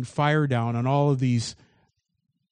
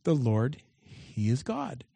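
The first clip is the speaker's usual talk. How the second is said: quiet meaning of the name; slower than usual. Shown as a demonstration. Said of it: "what Elijah's name meant".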